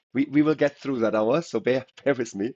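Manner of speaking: hoarse, getting through it. Real, not acted. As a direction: talk through a hoarse throat. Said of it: "my voice is a bit hoarse".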